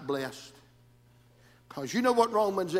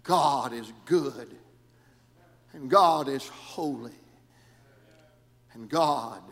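hushed preaching; 2 semitones lower, slower than usual. Acted. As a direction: bring it way down. Hushed drop after the climax.

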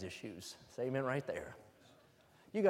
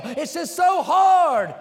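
mock whiner; 12 semitones higher, 15 dB louder, much slower than usual. Mocking whiner at climax.

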